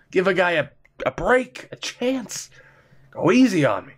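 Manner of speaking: high whiny pleading; mock plea. Gamer begging EA to go easy, mock whine. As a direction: beg the game for mercy.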